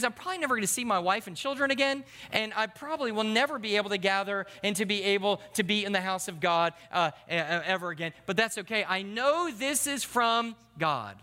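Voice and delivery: lightly voiced naive disciple; mock breezy dismissal. Preacher imitating a disciple shrugging off costs, mock breezy.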